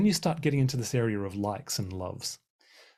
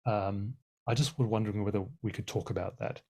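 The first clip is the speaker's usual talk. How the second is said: gentle raising. Shown as a demonstration. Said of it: "a really helpful way is to say".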